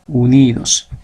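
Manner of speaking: "Unidos" with a held, stressed NI; teacher pointing out the stressed NI in "Unidos"; stress on second-to-last syllable. Shown as a demonstration. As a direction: stretch the middle of "Unidos", u-NIII-dos. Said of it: "¿Dónde está la mayor fuerza de voz?".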